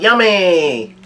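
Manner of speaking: high, drawn-out mock shout; Zeus's gleeful yell. Cloud Zeus yells out after eating, playful mock yell. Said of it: "he yells out".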